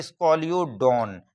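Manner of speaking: स्कॉलियोडॉन said slowly, syllable by syllable; teacher pronouncing स्कॉलियोडॉन slowly; slow clear naming. Shown as a demonstration. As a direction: spell out स्कॉलियोडॉन slowly for students. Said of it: "पहला example है".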